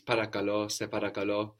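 παρακαλώ stressed on its final λώ; σε παρακαλώ, with the weight on λώ; accent on the end. Shown as a demonstration. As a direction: land on the last syllable of παρακαλώ. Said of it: "Also the accent on the end".

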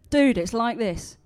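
loud, drawn-out mock American dude; attempted American accent. Preacher retrying the pilot's line, hammed-up American accent. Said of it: "I can't do an American accent".

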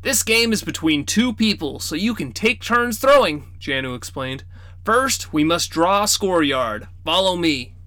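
a grandpa striking a playful deal; sly grandfather. Acted. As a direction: tempt the kids with a bargain. Grandfather explains game.

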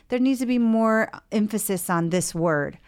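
lightly acted patient putting a point firmly; objecting patient. Patient correcting the therapist's draft song, mildly insistent. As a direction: press for a change, as a client would. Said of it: "or you say".

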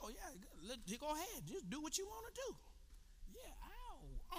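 soft, indulgent mock permission; mock giving in. Preacher mimics letting immaturity go, softly giving in. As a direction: let it slide in a small, soft voice.

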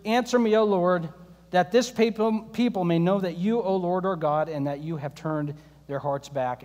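Elijah praying humbly, hushed and low; humble prayer. Retold or imitated. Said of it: "he prayed this prayer".

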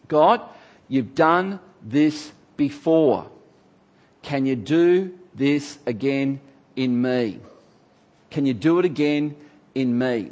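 slow, earnest plea to God; slow humble prayer. Shown as a demonstration. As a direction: pray it slowly, meaning every word. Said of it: "And that is this".

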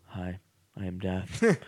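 slow, lightly voiced solemn Death; a hint of a grim reaper, said slowly. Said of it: "he's like".

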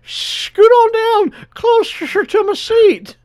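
high, slow breathy creep voice; slow creepy whisper-voice; whispery Family Guy guy. Retold or imitated. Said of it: "the fucking whispery guy from Family Guy".

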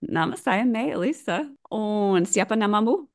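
Indonesian phrases with a Latvian accent. Real, not acted. Retrying her Indonesian introduction for the hosts, Latvian accent. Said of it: "saying that in a Latvian accent".

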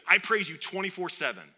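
loud, high mock complaint; mock all-caps rant. Receiver tweeting at God after the game, mock-indignant. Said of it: "it's in all caps".

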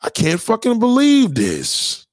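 high squeak of disbelief then slow; overjoyed shock at her interest, slowed down; mock disbelief. Man stunned a woman noticed him, squeaky amazed. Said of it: "you're like".

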